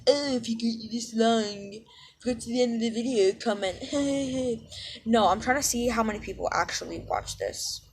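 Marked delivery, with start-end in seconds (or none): 0.1-3.8 mock video-creator plea. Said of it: "I know it kinda sounds like". 3.8-5.0 mock laugh. Mocking creator impression ends.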